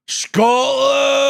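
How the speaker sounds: high, loud burst of joy; loud, delighted shout; excited shout. Real, not acted. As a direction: yell it out, thrilled.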